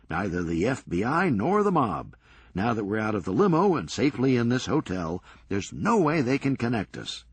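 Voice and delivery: brisk, sardonic comeback; wry Serge. Acted. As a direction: toss it off dryly, quick. Serge reassures Doug.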